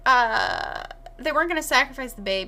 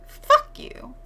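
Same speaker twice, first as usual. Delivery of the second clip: mock spiteful shout; 4 dB louder than usual. Voicing Rosemary spitting at Guy.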